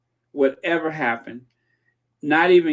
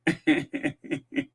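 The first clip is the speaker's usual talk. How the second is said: diabolical laugh; 4 dB quieter than usual. Acted. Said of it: "That's my diabolical laugh".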